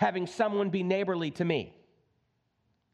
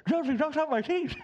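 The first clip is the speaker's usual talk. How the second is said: whiny victim; 8 semitones higher than usual. Retold or imitated. Victim complains to judge.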